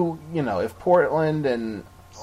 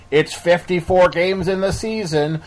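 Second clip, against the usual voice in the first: put-on slow, louder nerdy old man read; 3 semitones higher, 5 dB louder, slower than usual. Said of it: "that's your old man voice? Or is that your, like, nerdy voice?".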